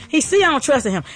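ordinary talk, nothing marked

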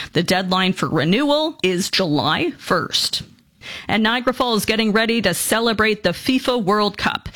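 steady, measured newscast delivery; radio news anchor read. Acted. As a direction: read it like the morning news desk. Reads the local news.

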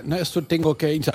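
imitating a Dutchman's clumsy Spanish; halting Dutch accent broken by hiccups; mock Dutch installer's Spanish; rough Dutch-accented Spanish. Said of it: "tenía un español un poco tosco".

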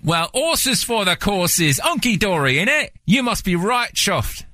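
slow, sing-song British phrases; mock British slang. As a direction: reel off British sayings lightly. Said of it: "British terminology".

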